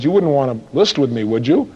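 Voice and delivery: acted dejection, sinking at the end; defeated salesperson. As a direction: ask as if already expecting no. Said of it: "their face and voice says".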